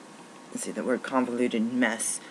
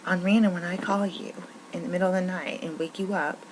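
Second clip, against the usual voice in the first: high, sarcastic mimicry of the boss; mock the boss's fake concern; 8 semitones higher than usual. Mocking bosses who demand overtime.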